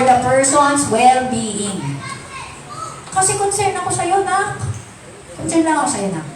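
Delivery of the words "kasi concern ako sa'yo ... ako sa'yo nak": loving tone. Shown as a demonstration. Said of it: "pinagsasabihan mo yung anak mo".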